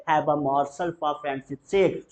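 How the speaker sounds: very slow, rising on sake; slow drill line; slow repeat-after-me. Shown as a demonstration. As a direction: draw it out for the class. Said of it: "बोलेंगे".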